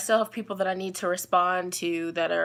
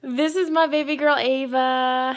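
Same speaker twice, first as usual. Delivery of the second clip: put-on doting baby talk; 3 semitones higher than usual. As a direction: coo it like talking to a baby. Cooing to her baby dog.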